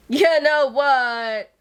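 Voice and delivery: a gushing, emphatic repeat; excited emphasis. Real, not acted. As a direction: lean hard on "You know what?". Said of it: "repeats it louder and slower".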